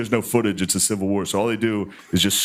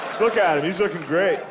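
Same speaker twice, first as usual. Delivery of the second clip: doggy greeting voice; 10 semitones higher than usual. Pretend. Guest greeting the friend's sixteen-year-old dog, high coo. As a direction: coo like you're greeting a frail pet.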